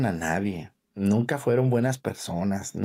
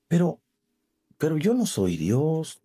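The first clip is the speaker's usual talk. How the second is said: señora alterada, voz más aguda; discusión recreada; 4 semitones higher than usual. Retold or imitated. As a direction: imitar a la feligresa que reclama. Sacerdote recrea discusión con señora. (imitando a una señora alterada)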